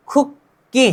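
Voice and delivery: खुक्की split as "khuk... ki"; pronunciation demo. Shown as a demonstration. Teacher introduces the word to learners, pronunciation demo. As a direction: break खुक्की at the doubled k. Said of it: "इसको हम बोलेंगे क्या?".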